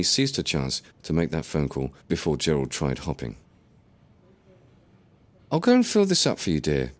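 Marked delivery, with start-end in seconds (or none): 5.5-6.9 smiling. Acted. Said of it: "with a smile".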